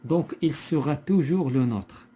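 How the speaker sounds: deliberate verse reading; poem reading aloud. Shown as a demonstration. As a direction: read it out firmly and slowly to a class. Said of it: "on va lire le poème".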